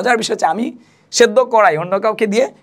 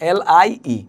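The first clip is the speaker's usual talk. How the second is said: slow spelling; much slower than usual. Shown as a demonstration. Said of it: "লাই মানে হচ্ছে কি?".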